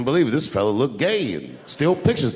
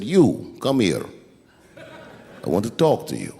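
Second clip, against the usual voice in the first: calm menace; 4 semitones lower, slower than usual. Retold or imitated. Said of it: "he was calm as a cucumber".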